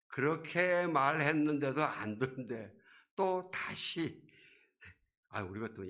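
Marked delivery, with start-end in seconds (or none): 0.1-4.2 또 다시 pitched high and drawn out; emphatic stress. Real, not acted. Preacher on God speaking to those who won't listen, 또 다시 stressed. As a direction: stretch out 다시 for emphasis.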